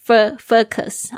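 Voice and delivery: slow "focus" with a wrong, shortened first vowel, "fuh-kus"; mispronounced first vowel. Shown as a demonstration. Teacher showing another common mistake, "focus" as "fuh-kus". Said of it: "或者是".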